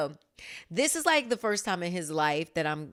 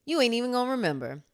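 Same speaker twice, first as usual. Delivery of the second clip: higher and louder, hammed-up complaint, fast at the end; mock exasperation; 9 semitones higher, 10 dB louder than usual. Mom jokingly complains to her son, loud mock exasperation. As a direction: play-act the hurt mom who did all the work. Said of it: "And I'm like".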